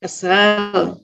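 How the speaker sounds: soft, low gentle question; mother quietly asking her whining child. Retold or imitated. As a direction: ask tenderly, almost hushed.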